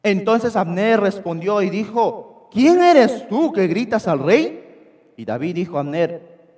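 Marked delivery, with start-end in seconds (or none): 2.5-5.1 loud, slow call in another voice; calling back. Acted. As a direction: shout back from the far mountain. Abner answers David's shout.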